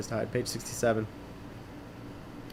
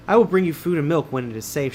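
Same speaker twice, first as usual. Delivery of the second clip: put-on girl's voice; 3 semitones higher, 4 dB louder than usual. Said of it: "she says".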